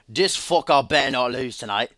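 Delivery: attempted British accent; best British accent. Commentator reading Sebastian Crawford's tweet, mock British accent. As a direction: put on your best British voice. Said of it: "That's my best British accent there".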